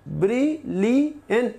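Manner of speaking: ब्रिलियंट said slowly as ब्रि-लि-यंट; slow syllable split. Shown as a demonstration. Teacher counting the three syllables for students, slowly. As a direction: pull ब्रिलियंट apart into three slow beats. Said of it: "तो three syllables हैं".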